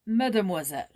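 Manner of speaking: calling out. Acted. Old man calling Joyce from the next room, loud call. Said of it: "called Monsieur Ciseaux from the next room".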